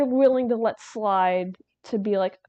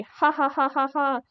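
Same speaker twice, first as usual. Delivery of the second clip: mock gleeful laugh; 5 semitones higher than usual. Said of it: "which were meant to be".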